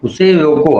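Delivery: firm break straight after रोको; stop after रोको. Shown as a demonstration. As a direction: lift उसे, let रोको fall, then stop. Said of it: "रोको पे ही लगा दिए".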